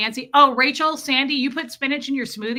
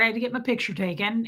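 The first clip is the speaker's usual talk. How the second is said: slip of Southern accent; faster than usual. Real, not acted. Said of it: "did I just say that with a Southern accent".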